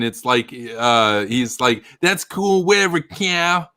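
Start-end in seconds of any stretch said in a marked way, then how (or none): 2.0-3.7 much higher cartoon kid voice, dismissive; Eric Cartman. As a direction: brush him off like a bratty cartoon kid. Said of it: "that's like Eric Cartman".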